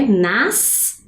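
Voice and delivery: "Nascimento" as nas-si-men-to with gaps; separated syllables. Shown as a demonstration. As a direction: break "Nascimento" into four syllables. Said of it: "a sílaba vai ficar com o som separado". ("Nascimento" sílaba por sílaba)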